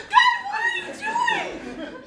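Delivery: high, loud startled cry; shocked shriek. Acted. Girl recoils as God makes a pass, shrieking. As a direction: recoil in disbelief.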